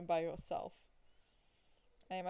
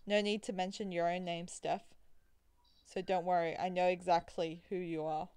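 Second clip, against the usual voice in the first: theatrical preacher vampire. Acted. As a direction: preach it like a showman with a smirk. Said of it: "melodic and a little theatrical".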